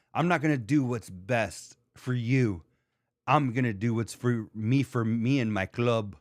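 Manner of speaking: lightly mimicked British slip in an American accent; mock a Brit's imperfect American accent; Jax impression. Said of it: "the word club in an American accent".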